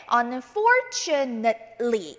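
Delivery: "unfortunately" broken up slowly, ending "net-lee"; -nately as "net-lee". Shown as a demonstration. Teacher showing how to read it, syllable by syllable. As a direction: say "unfortunately" piece by piece with short "net". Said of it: "이렇게 읽어주시면 됩니다".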